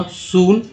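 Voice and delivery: सून with a long oo; सून read out as soon; model word. Shown as a demonstration. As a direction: hold the oo in सून. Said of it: "double ओ का उच्चारण ऊ".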